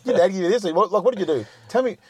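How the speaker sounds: a lightly acted skeptical grilling; mock incredulous challenge. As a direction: demand an answer, half-playful. Challenging people who assume things.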